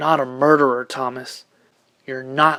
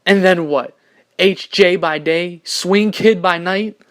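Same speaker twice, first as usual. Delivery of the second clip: loud, slow challenge, pitch raised; heated retort; 4 semitones higher, 10 dB louder, much slower than usual. Acted. Peter argues back at Thomas, heated retort. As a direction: throw it back at him loudly.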